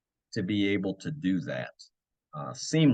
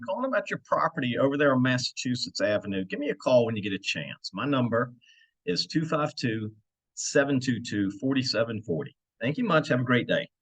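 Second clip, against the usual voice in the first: cheerful voicemail greeting. Acted. Voicemail left for a seller.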